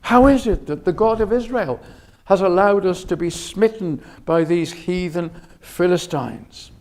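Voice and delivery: baffled question, starting high; puzzled. Acted. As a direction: voice the elders' bewilderment, pitch lifted at the start. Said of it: "They were puzzled".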